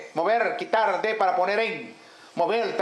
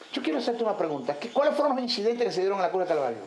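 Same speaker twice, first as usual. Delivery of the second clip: mock demon questioning; 2 semitones lower, faster than usual. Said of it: "como un teatro".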